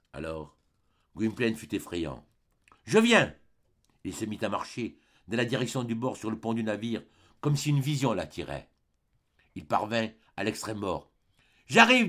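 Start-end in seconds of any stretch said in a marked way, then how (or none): 2.8-3.3 high, loud answering cry; fervent call. A narrator's reading. Entranced lover answers dead beloved. 11.7-12.1 high, loud call; fervent call. A narrator's reading. Calls to beloved before drowning.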